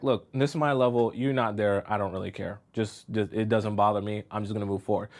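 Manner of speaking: acted cool indifference, dropped low; detached. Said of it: "when you're that detached".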